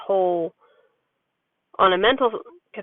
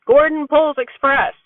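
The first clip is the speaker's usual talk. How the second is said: her son's dropped-word version, a bit higher and louder; imitating her son; 6 semitones higher, 5 dB louder than usual. Mom showing how her son really says it, lightly higher. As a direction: lightly mimic a toddler's short phrase. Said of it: "but he goes".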